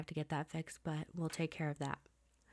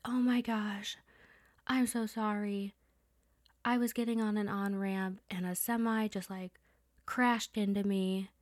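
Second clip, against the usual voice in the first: higher, urgent mock yell of a shaken dad; retold panicked yelling; 4 semitones higher than usual. Shaken dad calling after a semi hit him, mock panicked yell. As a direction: retell dad's frantic apology, pitched up.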